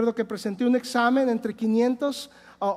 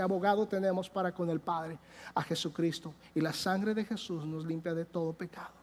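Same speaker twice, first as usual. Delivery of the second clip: reverent scripture reading; 5 semitones lower, 7 dB quieter than usual. Acted.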